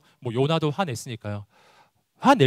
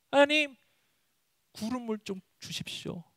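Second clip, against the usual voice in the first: high plea sinking to very soft; pleading prayer; 9 semitones higher, 4 dB quieter than usual. Acted. Believer asks God for clouds, soft high pleading. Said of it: "우린 또 기도해요".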